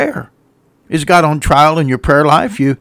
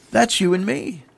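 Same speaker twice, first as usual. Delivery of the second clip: softer, higher echo of the line; hushed repeat; 4 semitones higher, 7 dB quieter than usual. Real, not acted. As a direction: let "That's you and me" drop softly.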